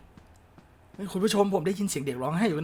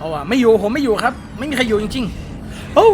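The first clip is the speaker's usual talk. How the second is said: mock pleading; 4 semitones higher, 6 dB louder, slower than usual.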